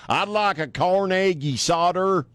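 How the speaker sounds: mangling Spanish food names, slow and high; a gringo butchering a menu order; mock bad Spanish. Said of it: "horrible, uh, pronunciation accent in general".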